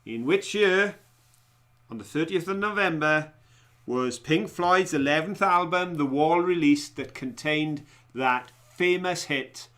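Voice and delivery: measured quizmaster delivery, pausing between phrases; quiz question read-out. Real, not acted. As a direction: put the question to the room, phrase by phrase. Reads quiz question aloud.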